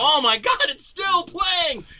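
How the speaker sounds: high, slow comic wail; hammed-up disbelief at a movie that won't end; mock horrified shout. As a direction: drag it out in exaggerated dismay. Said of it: "And I go".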